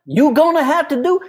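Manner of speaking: high, mocking parroting; mocking echo. S0 parrots friend.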